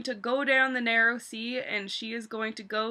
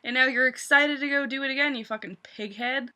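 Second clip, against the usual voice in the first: mock sympathy.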